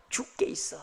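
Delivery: whispered 죽게 있어 with no voice. Shown as a demonstration. Pastor answering despair with a quiet whisper. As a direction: breathe 죽게 있어 like a secret. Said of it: "아니야".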